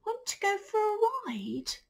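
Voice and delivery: high, eager-to-ask horse; horse's voice. Acted. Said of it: "said the horse".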